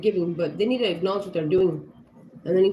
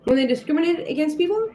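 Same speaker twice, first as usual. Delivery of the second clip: higher, louder, outraged tirade; angry mother telling off another parent; furious confrontation; 6 semitones higher, 3 dB louder than usual. Retold or imitated. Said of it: "I said".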